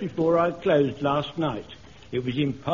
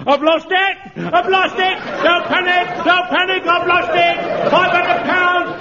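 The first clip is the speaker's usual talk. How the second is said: much higher and louder panicked shouting; 11 semitones higher, 7 dB louder than usual. Acted. Clerk panicking as he realises the money is gone, yelling. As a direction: scream it in full-blown panic, slowing at the end.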